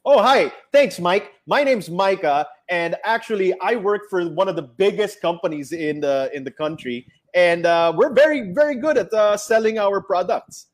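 contrived movie-voice salesman, leaning on it. Pretend. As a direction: play the slick sales rep who tells you about his company. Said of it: "Sample nga ng movie voice".

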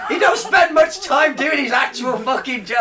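high, loud, scornful outburst; exasperated rant. Real, not acted. About the absent president, an exasperated loud rant. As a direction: rant it out in disbelief.

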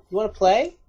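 put-on light eerie childlike lilt; a hint of a haunting ghost child; creepy child voice. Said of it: "in an echoey, horrifying, like, childish voice".

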